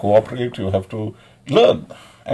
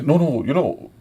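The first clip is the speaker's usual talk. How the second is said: mock preachy quote; 5 semitones higher than usual. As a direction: drag out the moralizing, mocking it. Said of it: "people think".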